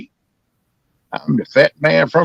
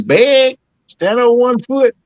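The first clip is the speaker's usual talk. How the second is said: commanding owner; 5 semitones higher than usual. Retold or imitated. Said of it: "Then you be saying".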